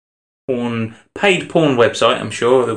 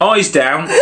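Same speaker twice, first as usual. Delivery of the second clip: bingo caller; 4 semitones higher than usual. Pretend. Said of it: "I'm gonna do it like a bingo caller".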